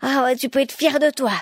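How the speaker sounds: high, loud sarcastic scolding; quarrelsome reproach. A narrator's reading. Wife turns on her husband, high and angry. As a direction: throw the blame back, shrieking a little. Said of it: "son tour de quereller".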